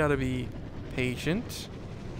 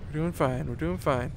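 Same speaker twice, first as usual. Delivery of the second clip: quiet self-reassurance; 6 dB quieter than usual. Real, not acted. Reassuring self during careful driving.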